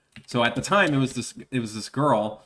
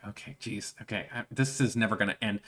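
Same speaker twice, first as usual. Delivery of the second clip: soft, weary inner groan; exasperated mutter; 2 semitones lower, 6 dB quieter, faster than usual. Retold or imitated. The cashier muttering as the pest won't leave. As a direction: mutter it under your breath, fed up. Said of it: "I'm just like".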